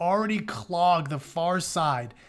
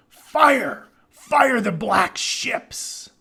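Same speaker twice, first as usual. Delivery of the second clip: high, loud, very slow battle cry; trumpet shout; 6 semitones higher, 6 dB louder, much slower than usual. A narrator's reading. Hector above the tumult calling for fire, trumpet shout. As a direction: blast it out like a trumpet over the noise. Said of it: "rose Hector's trumpet shout".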